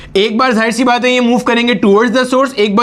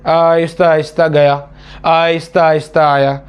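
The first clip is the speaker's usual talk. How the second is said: slow, drawn-out and lower, acting out a sluggish particle; dragging slow demo; 6 semitones lower than usual. Shown as a demonstration. Teacher acting out a low-frequency particle, slow and drawn out. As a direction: stretch every word as if barely moving. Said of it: "oscillation मर मर के".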